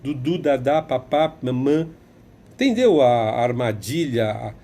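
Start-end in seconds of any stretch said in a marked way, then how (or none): 0.0-1.9 lightly voiced mock baby babble; a hint of baby talk, mocking adults. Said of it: "falando igual bebezinho".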